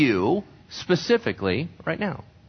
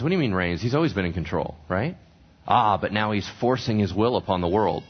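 ordinary delivery

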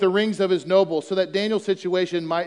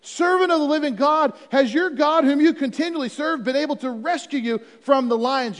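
higher, pleading call into the den; anguished call; 6 semitones higher than usual. Acted. King calling down into the den, anguished. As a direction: cry out desperate for a friend. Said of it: "he called to Daniel in an anguished voice".

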